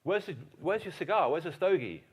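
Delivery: a worried private pleading with his officer; anxious soldier. Retold or imitated. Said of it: "one of his men said".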